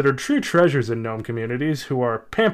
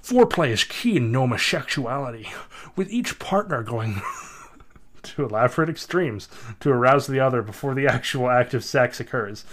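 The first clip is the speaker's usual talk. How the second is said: different voice. Acted. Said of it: "I'm gonna do that in a different voice".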